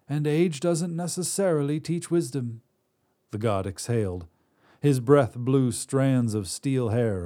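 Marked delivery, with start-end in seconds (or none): 0.1-2.6 put-on old Drea. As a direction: snap at him like a crotchety crone. Drea speaks to the god.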